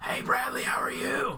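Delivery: whispered, hushed, breathy smoker's voice. Saying your voice will be gone by the end, put on a Rachael Ray smoker's voice. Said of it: "she has like serious smoker's voice".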